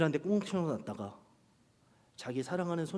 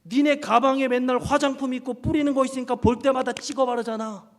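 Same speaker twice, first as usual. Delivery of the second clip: put-on higher, louder nagging at the girls; loud scolding; 9 semitones higher, 7 dB louder than usual. Pastor nagging youth girls about makeup bags, loud and high. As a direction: scold them like a big brother. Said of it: "제가 덧붙였던 말이".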